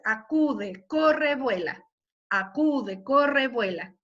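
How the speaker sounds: "acude, corre, vuela" con acento en la primera sílaba; ritmo trocaico. Shown as a demonstration. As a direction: recitado marcando el pulso. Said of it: "verso trocaico". (acento marcado en "acude, corre, vuela")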